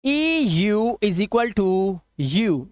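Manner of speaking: teacher to students noting the rule, slow dictation. Shown as a demonstration. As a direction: rule spelled out slowly, word by word. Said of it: "आप लिखेंगे".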